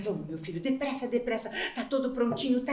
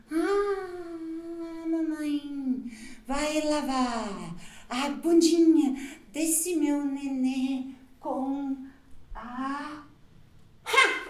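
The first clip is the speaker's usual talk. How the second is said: put-on soft, very slow whimpering baby talk; mock crying; 5 dB quieter, much slower than usual. Mother with no water for the baby, soft mock sob. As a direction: whimper it out slowly like a defeated mom. Water gone, sobbing softly.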